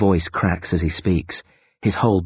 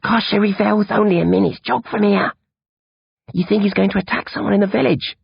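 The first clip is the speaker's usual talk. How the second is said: higher, lightly voiced teen boy; boy's voice; 14 semitones higher than usual. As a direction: voice the worried young friend. Narrator voices Bill E.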